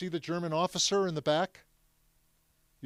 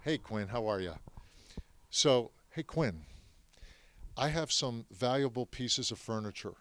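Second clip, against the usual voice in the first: hushed confiding; 2 semitones lower, 6 dB quieter than usual. Retold or imitated. Grandfather quietly asking a café friend to keep his furniture. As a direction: lean in and ask it like a secret. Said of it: "when he's talking like this".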